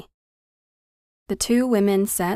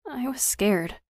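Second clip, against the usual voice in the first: higher, slightly small voice; open admission of fear; 6 semitones higher, 3 dB quieter, slower than usual. A narrator's reading. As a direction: confess your fear openly, understated. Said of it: "Imogen admitted openly".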